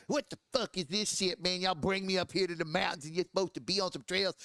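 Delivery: imitating a friend griping inside his helmet; bitching through helmet. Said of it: "when he's bitching through his helmet, he sound like that".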